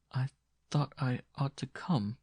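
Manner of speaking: reply haltingly, with a pause after the first word; hesitant reply. Acted. Woman explains her visit to former lover, hesitant.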